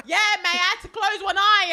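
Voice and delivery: hammed-up lad voice; loud Essex lad. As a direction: brag it like a rowdy lad. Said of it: "And he's like".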